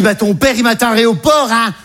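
imitated mother. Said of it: "Elle dit".

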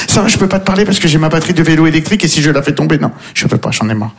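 quick, fussy excuse that dies away; mock fussy bobo. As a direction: rattle off excuses, then trail off. Bobo with e-bike battery voiced.

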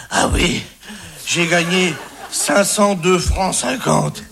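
worn out. Acted. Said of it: "elle rentre lessivée".

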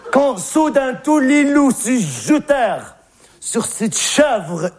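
slow, drawn-out storyteller delivery; story recitation. Acted. Telling the class how the wolves devoured the goat, dramatic recitation. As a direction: recite the tale, stretching the key words.

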